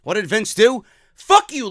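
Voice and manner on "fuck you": loud, high mock outburst; mock angry refusal. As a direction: act out a boss lashing out at an employee. Acting out Vince refusing Luke Harper.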